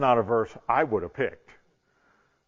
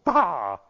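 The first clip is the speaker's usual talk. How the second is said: louder, higher exasperated outburst; frustrated "bah"; 5 semitones higher, 4 dB louder than usual. Pretend. Speaker imagining own frustration, mock exasperated outburst. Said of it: "I wouldn't be frustrated".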